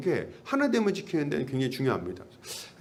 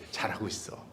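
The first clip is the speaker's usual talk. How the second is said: softer, lower caring questions; gentle caring greeting; 8 semitones lower, 9 dB quieter than usual. Shown as a demonstration. Pastor demonstrating kind words to a newcomer, gently. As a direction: ask like you truly care. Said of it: "이렇게".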